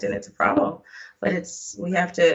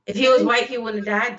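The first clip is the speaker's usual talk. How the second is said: louder, pushing the point; insistent; 3 semitones higher, 3 dB louder than usual. Real, not acted. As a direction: insist on it firmly. Repeats line insisting.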